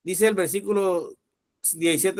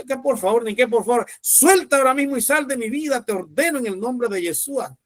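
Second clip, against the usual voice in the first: with authority; 2 semitones higher than usual. Retold or imitated. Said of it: "con autoridad".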